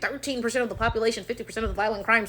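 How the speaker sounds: quick, quiet, dismissive rattle-off; mocking quote of a statistic. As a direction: rattle it off like a tired cliché. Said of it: "them quoting some fake-ass statistic".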